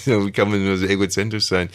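protesting with a held tongue; holding tongue. Pretend. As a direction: talk around a fixed tongue. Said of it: "irgendeine Comicfigur spricht doch so".

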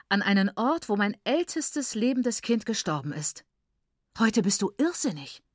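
mildly scolding, incredulous protest; indignant refusal. A narrator's reading. Mother angrily refuses husband's decision.

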